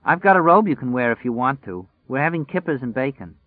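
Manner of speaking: a hint of a chirpy girlfriend offering breakfast; woman's voice.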